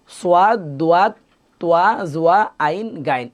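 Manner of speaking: সোয়াদ, দোয়াদ said with a glide, like soo-ad, doo-ad; wrong pronunciation demo. Shown as a demonstration. Teacher showing students the wrong way. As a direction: show the common mistake, সোয়াদ with oa. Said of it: "এভাবে আমরা অনেকে পড়ে থাকি।".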